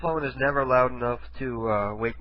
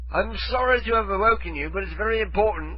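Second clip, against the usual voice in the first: fake British accent; 6 semitones higher than usual. Prank caller apologizing for waking someone, fake British accent. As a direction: apologize in put-on British, high and insistent. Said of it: "with a British accent".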